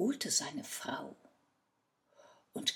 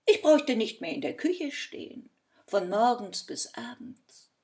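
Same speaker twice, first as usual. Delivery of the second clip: excited wife; 5 semitones higher, 7 dB louder than usual. Acted. Wife gets excited about plan.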